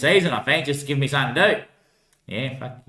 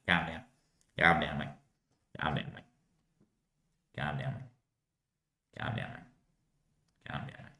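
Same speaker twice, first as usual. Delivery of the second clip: softer each time until whispered; fading calm down; 9 semitones lower, 12 dB quieter than usual. Acted. Calming his mate down, fading to a whisper. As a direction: soothe it down to a whisper, slowly. Repeated soothing, fading away.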